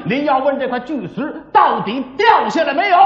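dramatic pingshu storyteller voice, rising to the cliffhanger; storyteller narration. Acted. Storyteller tells listeners the cave-in, in a dramatic pingshu voice. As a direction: spin the tale like a pingshu teller.

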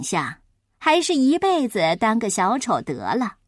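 low, smug braggart voice; boastful show-off. Acted. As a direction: lord it over the boy. Boastful acrobat scolds the clown.

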